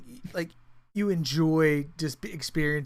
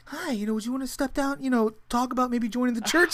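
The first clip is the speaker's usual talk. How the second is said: mock church greeter; 7 semitones higher than usual. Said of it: "the whole congregation's out there".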